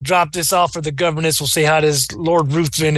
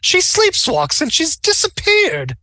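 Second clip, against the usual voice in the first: put-on high, slow fretful old woman voice; anxious old widow; 11 semitones higher, slower than usual. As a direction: plead like a frightened aunt. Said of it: "she insists".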